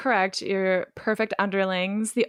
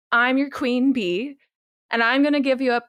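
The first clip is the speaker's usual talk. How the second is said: put-on Valley Girl; 4 semitones higher, 4 dB louder than usual. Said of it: "talk like a Valley Girl".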